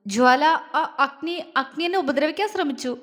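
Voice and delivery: barely has the strength to get the words out; weak, exhausted voice. A narrator's reading. Surabhi, hurt, accuses Agni to Jwala in a weak exhausted voice. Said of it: "തളർന്ന സ്വരത്തിൽ പറഞ്ഞു".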